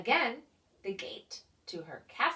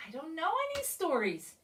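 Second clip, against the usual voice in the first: whimpering; 7 semitones higher, much faster than usual. Acted. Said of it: "he whimpered".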